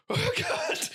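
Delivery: high, appalled exclamation; disgusted oh God. Retold or imitated. Seeing the woman's spiked toenail, disgusted. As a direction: recoil in disgust.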